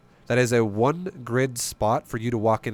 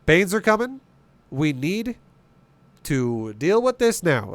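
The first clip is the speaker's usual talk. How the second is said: higher and louder alarm at incoming Banelings; mock panic; 5 semitones higher, 4 dB louder, slower than usual. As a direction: act out the panic of seeing Banes. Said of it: "I'm like".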